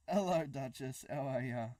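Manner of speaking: a clumsy put-on Australian hello; bad Australian accent. Greeting Duchess in a terrible Australian accent. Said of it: "that was a terrible Australian accent".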